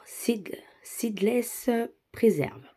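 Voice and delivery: English words in a French accent; halting Franglais, feeling out the English name. Real, not acted. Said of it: "on va le faire en mode, euh, franglais".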